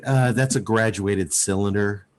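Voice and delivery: imitating a let-down wife, low-pitched; mild mock disappointment. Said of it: "her sigh of disappointment".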